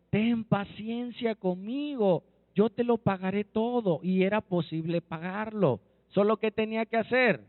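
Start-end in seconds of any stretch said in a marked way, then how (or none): 0.1-4.0 understated plea at everyday pitch; mild pleading. Acted. Fellow servant begs for patience at his feet, understated plea. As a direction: beg gently, with little change of voice. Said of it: "Le rogó diciendo".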